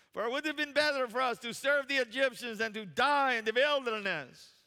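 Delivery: put-on loud, high complaining Jewish accent; theatrical Jewish-accented protest; mock Jewish accent. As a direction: wail the grievance in a hammed-up Jewish accent. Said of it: "my best Jewish accent".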